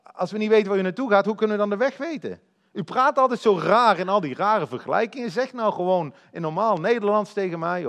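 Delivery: frustrated disciple pleading for plain words; exasperated confusion. Acted. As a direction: complain like someone totally lost. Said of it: "Hij snapt het niet".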